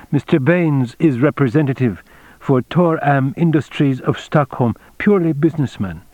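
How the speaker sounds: a hint of a composed senior officer; the general, formal. General explains the cover story to Tagomi, lightly voiced formality.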